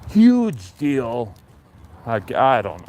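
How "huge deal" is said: Trump impression. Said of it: "my Trump impression".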